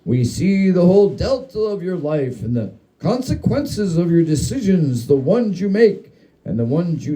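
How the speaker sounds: a hint of a lecturing father; ghost doing a dad voice. Ghost mocking the narrator as his dad, lightly voiced. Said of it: "I do a great dad".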